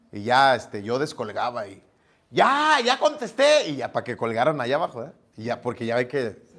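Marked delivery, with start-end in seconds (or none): 2.3-3.7 higher, slow answer called downstairs; calling down. Retold or imitated. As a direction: shout down that you've picked up. Contesta al teléfono gritando. (aviso hacia abajo, agudo y lento)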